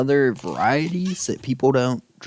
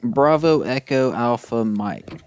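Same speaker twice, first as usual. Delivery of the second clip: slow phonetic alphabet. Shown as a demonstration.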